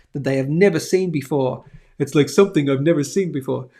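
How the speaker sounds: a lightly attempted, bad celebrity impression; hint at a clumsy presidential impersonation; Donald Trump. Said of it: "I do the worst Trump accent ever".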